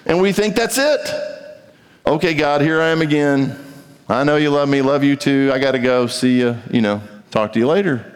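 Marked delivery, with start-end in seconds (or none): 2.1-8.1 hurried mock prayer. Believer going through the motions with God, casual brush-off. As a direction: toss off a quick prayer and hang up. Mocks a rushed, routine prayer.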